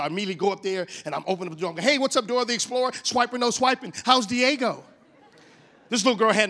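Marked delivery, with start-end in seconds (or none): 1.8-4.8 put-on higher, playful hail to a kid; over-the-top greeting. Speaker greets little girl at school drop-off, playfully over the top. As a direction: re-enact a peppy, teasing hello. Greeting kids at car door.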